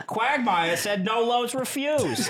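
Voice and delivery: a slow, laughing cartoon-dad impression; Peter Griffin. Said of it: "do your best Peter Griffin".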